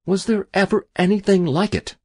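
high-pitched question full of wonder; amazed cry. A narrator's reading. Castwell to the keeper over his luck, amazed cry. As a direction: exclaim it high, marvelling. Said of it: "cried Mister Castwell".

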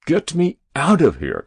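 high, loud plea; urgent cry. A narrator's reading. President calling to his men, urgently. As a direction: cry out to be taken away. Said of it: "cried the president".

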